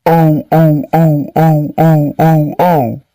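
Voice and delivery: mock gasping oh oh oh; shocked. Principal shocked.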